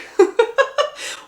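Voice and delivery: a high, loud burst of laughter; high squealing laugh. Real, not acted. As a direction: crack up at how silly it is. Laughing at show logic.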